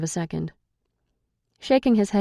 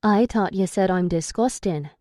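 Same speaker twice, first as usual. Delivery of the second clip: mock Irish accent, lightly done. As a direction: tease him in his own Irish accent. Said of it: "using his accent".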